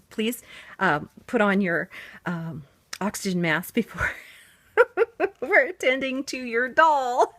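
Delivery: mock safety announcement. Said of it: "she held it up for me and she says".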